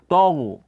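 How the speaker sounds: "taghu" with a heavy ta, close to to-ghu; wrong thick ta. Shown as a demonstration. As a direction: round and darken the first syllable of "taghu". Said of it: "jangan terbawa ketebalnya huruf gha".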